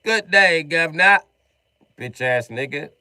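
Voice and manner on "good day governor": high, slow, hammed-up British toff; loud mock British gloat. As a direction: play a posh Brit after the kill. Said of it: "be like".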